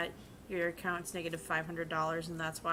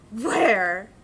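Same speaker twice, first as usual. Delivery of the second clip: mock baffled where; 12 dB louder than usual. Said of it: "they'd be like".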